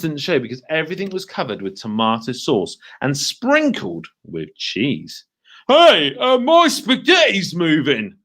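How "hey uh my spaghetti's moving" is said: surprised cry. Acted. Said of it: "cried Mister Twit".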